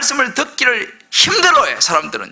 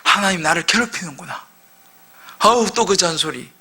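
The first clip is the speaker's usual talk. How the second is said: grumbling people; 4 semitones lower than usual. Acted. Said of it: "이스라엘 백성들이 어떻게 생각하냐면".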